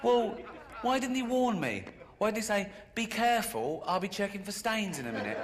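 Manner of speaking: comic outrage at being caught out; indignant outburst. Real, not acted. Indignant rant at the doctor.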